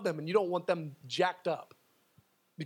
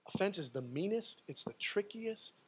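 much softer, slower, low warning; grave hush; 5 semitones lower, 8 dB quieter than usual. Real, not acted. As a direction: lower the voice to warn of danger. Grave warning about offense.

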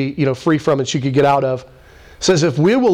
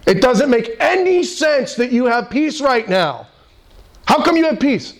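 puzzled onlooker; 7 semitones higher than usual. Retold or imitated.

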